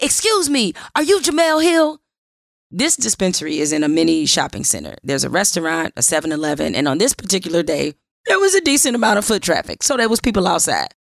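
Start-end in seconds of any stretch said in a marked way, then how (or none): 0.0-2.0 shrill, loud, very high-pitched shouted yell. Retelling how a man outside a dispensary called out her name: retelling a loud yell. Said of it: "I hear a voice yell loudly".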